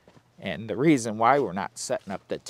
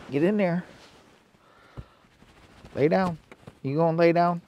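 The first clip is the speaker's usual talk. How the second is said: firm command; 6 semitones higher, 5 dB louder than usual. Real, not acted. Ordering dog to lie down.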